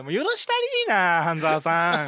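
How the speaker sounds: mock pleading. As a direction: plead teasingly with a TV hero. Viewer pleading with drama hero.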